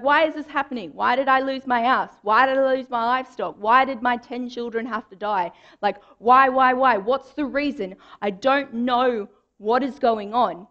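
angry outburst. Retold or imitated. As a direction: voice Job's anguished, building anger. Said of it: "we can see the anger in his voice".

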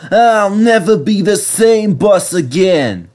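tired bus grumbling on the hill; weary bus. A narrator's reading. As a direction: moan it while climbing. Bertie straining up hill.

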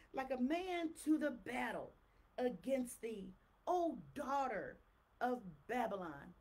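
slow, weighty preaching read; scripture reading. Acted. Preacher reading prophecy to the congregation, slow and solemn. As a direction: proclaim the verse slowly and gravely.

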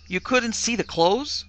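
slow, high questioning disbelief; incredulous. A narrator's reading. Mistress doubting maid's account, incredulous. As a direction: query it as if unbelievable.

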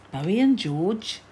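echoing the name, rising at the end; who on earth is that, asked with a rise; puzzled question. Real, not acted.

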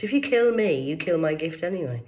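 high, loud burst; sudden outburst. Real, not acted. Ranting at her enemies, a sudden high loud burst. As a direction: fling it at them.

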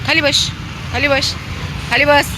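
high, insistent order to a pet; high-pitched order to sit; dog command. Real, not acted.

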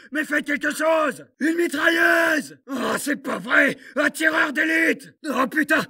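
yelling under heavy fire; shout, desperate and pinned down; panicked shouting. Acted. Soldat pris sous le feu. (cris de panique)

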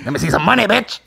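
mock demanding comic voice; Dave Chappelle impression. Comic demanding rent money, mock stand-up scolding. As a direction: demand it, lifting the last word. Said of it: "with the Dave Chappelle voice".

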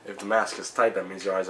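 speaking through covered mouth; muffled behind palm; hand over mouth. Real, not acted. Seen 0: Hand covers mouth from 0.9 to 2.1s while he talks.

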